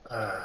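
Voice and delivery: long drawn-out reluctant "uh"; long sigh. Acted. Character reluctantly answers the party, long sigh. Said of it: "let out a long just".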